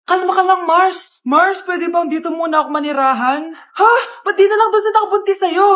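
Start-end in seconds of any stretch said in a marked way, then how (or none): 3.5-5.7 loud startled cry; shocked. Acted. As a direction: gasp it out in shock. Friend shocked.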